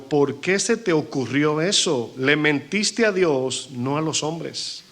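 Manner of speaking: slow, drawn-out preaching of the verse; preacher hammering each word; fiery scripture reading. Acted. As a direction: confront Ananías from the pulpit. Pastor reads Peter's rebuke.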